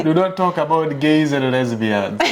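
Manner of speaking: imitated Ugandan driver's warning; lightly put-on Ugandan accent. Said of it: "explained it to me with a Ugandan accent".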